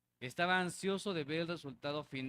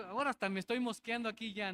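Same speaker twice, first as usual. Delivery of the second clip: joking aside; 5 semitones higher, faster than usual. Retold or imitated. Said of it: "yo digo".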